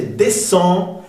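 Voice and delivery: "descend" with silent C and nasal ending. Shown as a demonstration. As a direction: end "descend" on a nasal vowel. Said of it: "sonido nasal".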